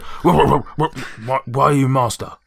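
halting talking-dog voice. Acted. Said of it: "I can't even do a dog voice at this point".

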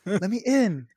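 put-on retelling his drunk demand to be let in, high and loud; mock drunk anger. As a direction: yell it up high like a drunk kid locked out. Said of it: "I was like".

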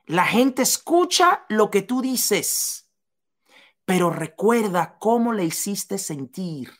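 slowed down, leaning on each word; slow deliberate repeat for emphasis; slow and emphatic. Shown as a demonstration. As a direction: spell it out slowly so it sinks in. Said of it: "oye bien, oye bien".

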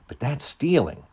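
high, shocked protest. A narrator's reading. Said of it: "Sherry protested".

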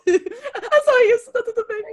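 very high, slow, put-on voice; mock falsetto. Teasing her co-host's allergy excuse in a high, slow mock voice. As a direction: squeak it out slowly like a fake reassurance.

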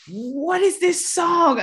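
high, slow, drawn-out question; puzzled wonder. Retold or imitated. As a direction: ask it like a child hearing music for the first time. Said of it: "And I'm like".

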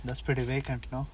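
Al Pacino impression. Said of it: "Then Al Pacino says".

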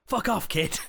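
high-pitched mock telling-off; mock angry outburst. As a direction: play a tiny man fed up with a kid. Acting tiny man grabbed by child.

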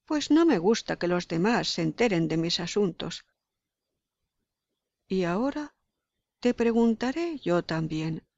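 lightly voiced stern old witch; a hint of a harsh witch, dismissive. Baba Yaga's lines to the girl.

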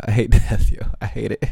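real laugh breaking into sad words; coping with a pained laugh; laughing through pain. Real, not acted. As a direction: laugh it off while saying it. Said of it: "I'm laughing 'cause that's, like, my only way to cope".

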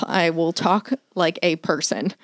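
slow robot-like monotone. Retold or imitated. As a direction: talk like a stiff robot. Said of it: "robot thing".

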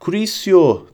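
high, sharp yell with moderate volume; cried-out spell. A narrator's reading. Bellatrix fires a curse at Harry, crying out. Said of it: "diye haykırınca".

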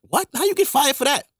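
high, stunned disbelief; shocked brother. Retold or imitated. Brother hearing he got fired, voiced high and stunned. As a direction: jump up in pitch, shocked.

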